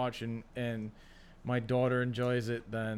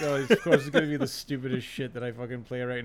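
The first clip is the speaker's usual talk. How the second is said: laughing; 4 dB louder than usual. Real, not acted. Laughing while retelling.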